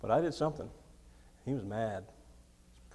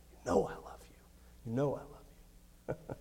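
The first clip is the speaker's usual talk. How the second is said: whispered reply; 7 dB quieter than usual. Acted. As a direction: breathe the words out, broken. Peter's broken reply, whispered.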